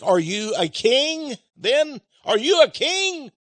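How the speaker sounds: incredulous rising question; mock Pilate, pitch climbing to disbelief; a lightly voiced Roman governor questioning; Pilate's question. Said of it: "he asked".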